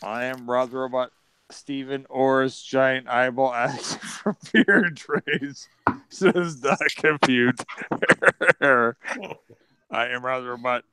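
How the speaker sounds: monotone robot card reading. Acted. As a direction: keep it mechanical, with stray laughs breaking in. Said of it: "what has Robbie the Robot sound?".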